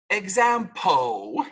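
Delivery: exampo said slowly with no final L; wrong exampo. Shown as a demonstration. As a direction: stretch out exampo, swallowing the L. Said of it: "This is not".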